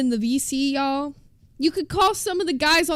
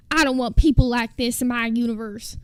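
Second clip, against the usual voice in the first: put-on a light country accent, louder; 3 semitones lower, 5 dB louder than usual. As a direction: imitate him in a mild country accent. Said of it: "he didn't say it with a country accent".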